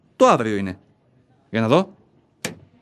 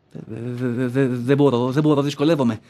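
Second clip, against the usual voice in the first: panicked stammer; 3 semitones lower than usual. Acted. Panic attack, can't breathe.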